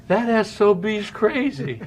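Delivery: slow, high, laughing mock disbelief; a hint of the manager's amazement, laughed out; laughing imitation of Sparky. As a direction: retell the manager's stunned verdict through laughter. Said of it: "he looks at me and he goes".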